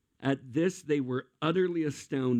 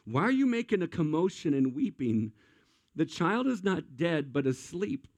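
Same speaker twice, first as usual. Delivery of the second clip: calm question to mourners; 4 semitones higher than usual. Retold or imitated. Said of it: "said to them".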